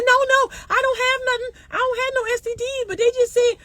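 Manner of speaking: imitating daughter. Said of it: "She said".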